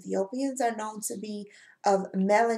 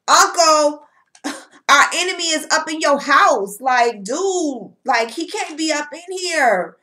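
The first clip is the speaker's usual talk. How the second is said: louder, higher mock outrage at the uncle; indignant nephew; 4 semitones higher, 4 dB louder than usual. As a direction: protest hotly that the enemy is in the house. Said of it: "Tybalt is like".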